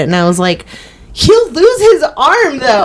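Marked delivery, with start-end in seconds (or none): 1.1-2.9 slow, high mock wail; high-pitched protest. Viewer protesting the tourniquet plan, high comic wail. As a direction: squeal it in exaggerated dismay. Acting out own protest at show.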